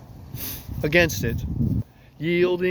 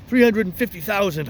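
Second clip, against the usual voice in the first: higher, louder marvelling boast; 6 semitones higher, 4 dB louder than usual. Acted. Long John marvelling to Hawkins, higher and louder. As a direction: wow the boy with the number.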